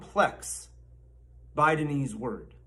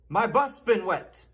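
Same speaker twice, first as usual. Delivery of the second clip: "My bus been wet" with BUS high; stress on BUS; 4 semitones higher than usual. Shown as a demonstration. Mock teacher prompting the class, stress on "bus". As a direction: lift "bus" and drop away after it. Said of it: "Say it".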